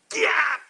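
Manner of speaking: loud, high battle cry; attack yell. Retold or imitated. Possessed girl lunging at the preacher, imitated loud yell. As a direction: let out a sudden high attacking shriek.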